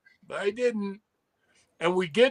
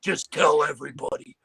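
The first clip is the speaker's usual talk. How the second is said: lightly voiced Hawk; 6 semitones lower than usual.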